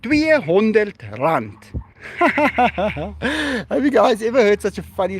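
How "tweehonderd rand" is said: "tweehonderd rand" said in Afrikaans; Afrikaans number. Shown as a demonstration. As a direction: give "tweehonderd" its Afrikaans sounds. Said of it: "Two hundred rand is".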